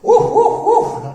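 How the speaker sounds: high yappy dog barks; dog barking. Acted. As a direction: bark like an excited puppy. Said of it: "It's Spot the dog".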